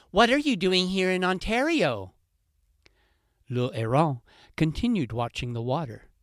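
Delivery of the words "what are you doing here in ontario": high, loud, pushy questions; insistent fox. Acted. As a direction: fox demanding answers, voice up high.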